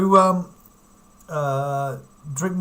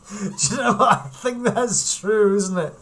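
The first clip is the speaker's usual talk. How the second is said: laughing; 5 semitones higher than usual. Real, not acted. Laughing agreement about the dog.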